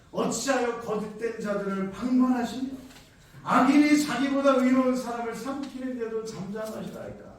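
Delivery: loud pleading question to God; scripture cried out; prophet's lament. Acted. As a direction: declaim the complaint with force. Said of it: "하박국 일 장 십삼 절 말씀해 보니까".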